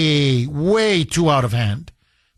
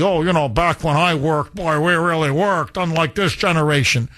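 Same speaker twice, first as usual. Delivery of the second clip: lightly voiced grumbling old-timer; a hint of a nostalgic fogey; middle-aged fogey. Middle-aged fogey comparing himself with this generation, lightly mocked. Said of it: "some middle-aged fogey".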